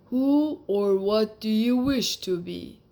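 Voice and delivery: a magic lizard setting its condition. Acted. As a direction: speak like a wise old magic lizard.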